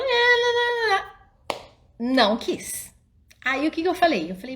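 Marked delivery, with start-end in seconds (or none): 0.0-2.3 high, sing-song whining no; child's whiny no. Retold or imitated. Mother mimicking her daughter's wailing refusal. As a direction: imitate a toddler refusing in a whiny wail. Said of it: "Aí ela".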